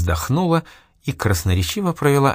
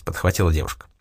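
plain reading voice

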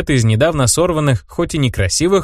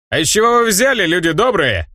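raised call to the crowd, higher; warrior shouting; 6 semitones higher than usual. Acted. Warrior demanding answers from the crowd, raised call. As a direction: call out over the villagers. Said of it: "закричал воин".

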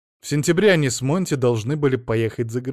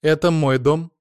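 firmly; 4 semitones higher, 6 dB louder than usual. A narrator's reading. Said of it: "твёрдо сказала Ада".

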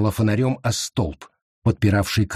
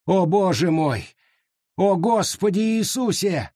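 higher panicked outcry; frightened cry; 7 semitones higher than usual. Acted. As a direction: cry out to God in terror. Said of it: "вскрикнул он".

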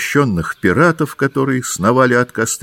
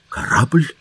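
high, surprised "Корабль?" with a rise; the doctor stunned by news of the ship; astonished exclamation; 7 semitones higher than usual. A narrator's reading. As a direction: gasp out the word in disbelief. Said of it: "воскликнул доктор".

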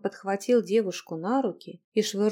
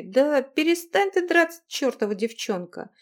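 loud, higher desperate yell; exasperated yell; 6 semitones higher, 5 dB louder than usual. Acted. Husband yelling at the struggling girl to stop. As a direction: yell at her to stop fighting. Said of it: "завопил он".

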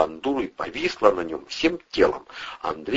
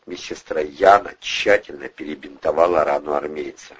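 ordinary delivery, nothing marked

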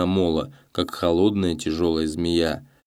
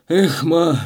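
high, louder despairing cry; a doomed peasant sighing at the order; hopeless sigh; 10 semitones higher, 5 dB louder than usual. A narrator's reading. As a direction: let it out as a hopeless groan. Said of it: "безнадёжно вздохнул Гаврила".

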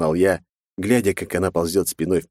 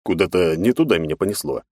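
ordinary delivery, nothing marked

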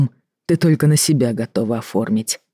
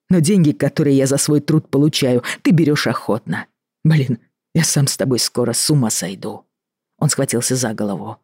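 usual speaking voice

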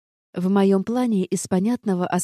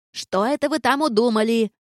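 raised, higher suspicious rant; ranting gargoyle; 5 semitones higher, 3 dB louder than usual. Acted. Gargoyle rants at the boys in the room, suspicious raised scolding. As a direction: fuss at them like a nosy warden. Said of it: "продолжала разоряться горгулья".

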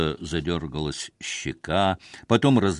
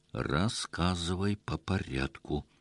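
slow, soft, low demand; quiet stern order; 4 semitones lower, 8 dB quieter than usual. A narrator's reading. Husband orders his wife to explain, quiet and slow. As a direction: hold the anger down, slowly. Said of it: "приказал сквозь зубы".

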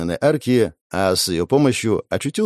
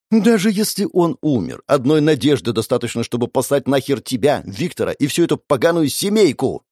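yelling at the top of her lungs; 3 semitones higher than usual. Acted. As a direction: scream it all out at them. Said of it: "Орала она во всё горло".

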